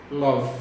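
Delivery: "love" ending on the V sound; silent final E. Shown as a demonstration. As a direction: say "love" with no vowel after the V. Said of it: "sem falar o E do final".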